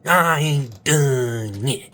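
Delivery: slow, loud, stretched defiance; defiant shout. Shown as a demonstration. Coach making viewers shout their defiant motto. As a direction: roar it out slowly. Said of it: "Say it with me".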